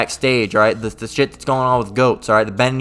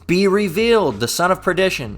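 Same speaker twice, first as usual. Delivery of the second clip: scripture reading; 2 semitones higher than usual. Acted. Preacher reads scripture aloud.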